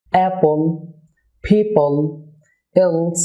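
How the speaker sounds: "অ্যাপল, পিপল, এলস" with a dark, held-back L; thick L closing each syllable. Shown as a demonstration. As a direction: stop the L on mid-tongue, unreleased. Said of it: "dark এল হবে".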